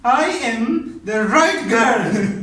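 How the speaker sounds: slow, loud, laughing wife; teasing wife. Retold or imitated. Wife's teasing retort voiced.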